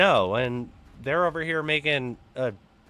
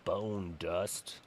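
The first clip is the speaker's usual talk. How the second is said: ordinary talk, nothing marked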